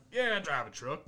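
lightly mock a rural truck owner's accent; mild country twang. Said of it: "Armada, they're just like".

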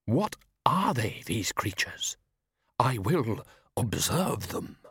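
slow, distant, otherworldly observer; eerie observer voice. Acted. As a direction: speak like something vast watching from afar. Unknown observer voice in prologue.

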